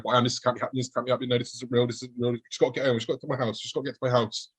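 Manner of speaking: quiet nervous self-talk while hurrying home; babbling to myself. Retold or imitated. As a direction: murmur it to yourself to stay calm. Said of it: "I'm babbling to myself now".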